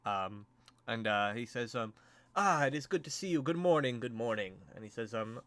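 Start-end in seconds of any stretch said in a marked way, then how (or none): 2.4-4.6 higher-pitched hearty greeting from a lord; welcoming lord. Acted. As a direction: greet the guests as a gracious lord. Game master voices lord greeting guests.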